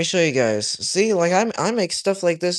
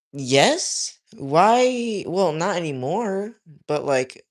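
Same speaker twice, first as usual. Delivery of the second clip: taken aback; 4 semitones higher, slower than usual. Real, not acted. Taken aback by personal question.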